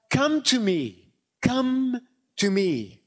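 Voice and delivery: slow, drawn-out invitation; Jesus's gentle call. Acted. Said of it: "Jesus speaking".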